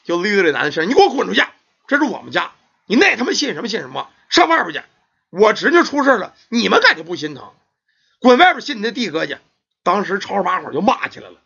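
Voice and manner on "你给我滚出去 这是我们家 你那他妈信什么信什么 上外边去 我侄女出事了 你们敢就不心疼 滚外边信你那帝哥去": aunt yelling. Acted. Aunt chasing the robed men out of her house, shouting. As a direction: drive them out with a shout. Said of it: "这姑姑也急了".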